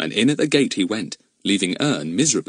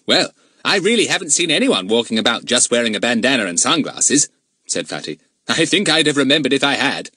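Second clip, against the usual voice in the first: put-on high, loud well-mannered boy; polite boy voice; 3 semitones higher, 3 dB louder than usual. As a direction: answer like a good schoolboy. Narrator voices Fatty.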